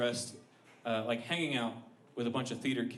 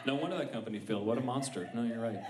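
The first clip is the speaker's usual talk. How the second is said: usual speaking voice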